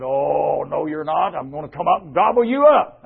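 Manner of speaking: troll threat building in pitch; lightly voiced menacing troll; threatening troll. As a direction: build up to a storybook pounce. Troll's threat acted in story.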